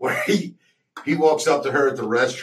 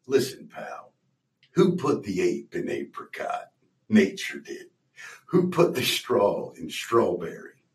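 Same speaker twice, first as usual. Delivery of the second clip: slow low Jack riddle voice; 3 semitones lower, 4 dB quieter, slower than usual. Retold or imitated. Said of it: "he goes".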